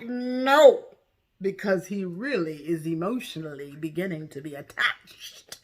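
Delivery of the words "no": high, loud, mock-crying no; anguished. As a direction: wail the no as if heartbroken. Anguished retelling of refusal.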